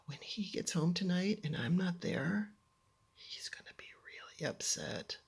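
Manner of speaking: soft, fading to a near whisper; worried thought. Retold or imitated. Girl imagining her dad's reaction, hushed worry. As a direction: think it aloud, hushed and worried.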